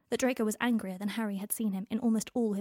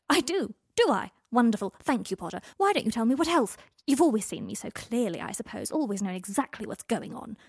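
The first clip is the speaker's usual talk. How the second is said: loud sarcasm; 2 semitones higher, 6 dB louder than usual. Acted. Draco's sarcastic outburst.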